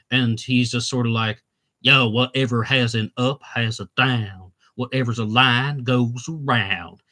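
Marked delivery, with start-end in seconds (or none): 1.8-6.8 slow, drawn-out put-on Southern accent. Retelling how a man introduced as a Danish serial killer talked, in a put-on Southern Carolinas accent. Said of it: "Sort of talking like that".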